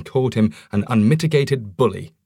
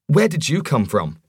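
breathless startled question, higher; gasped; 5 semitones higher than usual. Acted. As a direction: gasp it out in shock. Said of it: "gasped Roger".

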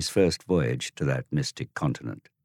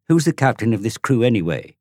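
glowering; 7 semitones higher, 6 dB louder than usual. Acted. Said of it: "Tom glowered at him".

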